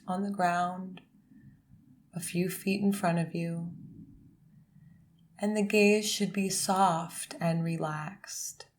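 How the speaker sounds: calm, unhurried instruction with long pauses; guided meditation. Real, not acted. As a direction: guide them gently into posture, phrase by phrase. Leads a meditation.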